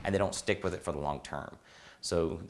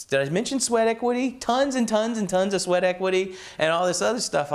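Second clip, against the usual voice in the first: much higher and louder, piling it on; exasperated; 10 semitones higher, 4 dB louder than usual. Retold or imitated. Student listing his struggles to the old mentor, high exasperated voice. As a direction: list it all like it's been exhausting.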